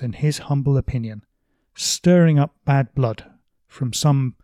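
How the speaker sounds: emphatic reading of a novel's dialogue; animated, declaimed book reading; literary reading. Acted. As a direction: read the quotation out with loud, punched key words. Reads the quotation aloud.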